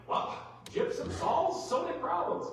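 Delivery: high, slow, emphatic mock quote; mock confident claim. Farm magazine promising a gypsum fix, high mock-confident voice. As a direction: parrot a too-easy cure, high and drawn out.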